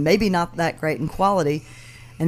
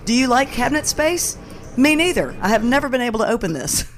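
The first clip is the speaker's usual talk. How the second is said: fake posh accent; 6 semitones higher than usual. Quoting the TikTok woman's posh voice.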